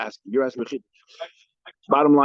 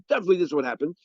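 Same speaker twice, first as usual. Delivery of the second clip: higher-pitched, insistent claim; emphatic claim; 4 semitones higher, much faster than usual. Acted. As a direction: state it as beyond all doubt. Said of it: "each one is emphatic".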